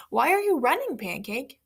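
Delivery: curious pig. Acted. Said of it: "the pig asked".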